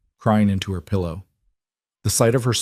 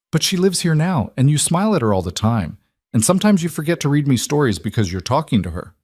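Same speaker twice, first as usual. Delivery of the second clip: put-on higher child voice, anxious; worried little girl; 6 semitones higher than usual. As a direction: voice a four-year-old afraid of losing dad. Narrator voices four-year-old.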